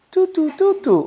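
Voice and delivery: high-pitched "toot toot" imitation; little high sing-song toots hinting someone is dim; playful imitated toots; mocking toot-toot noise. Shown as a demonstration. Mimes being slow in the head.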